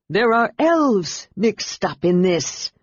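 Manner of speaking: slow, deliberate dragon voice; dragon snarl. A narrator's reading. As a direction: growl out the suspicion slowly as the dragon. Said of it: "Sky snarled".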